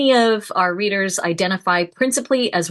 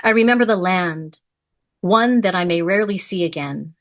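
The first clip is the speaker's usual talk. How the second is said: poem reading. Acted. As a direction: let each remembered image land, unhurried. Reads the poem Fig aloud.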